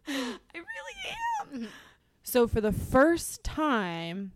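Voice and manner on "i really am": laughing it off, slowly; a slow, laughing admission. Real, not acted. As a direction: admit it through a laugh. Laughing at her own emotionality.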